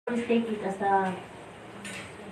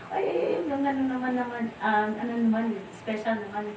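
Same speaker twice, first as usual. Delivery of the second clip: teasing devotees; 3 semitones higher than usual. Retold or imitated. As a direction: tease her playfully like jealous friends.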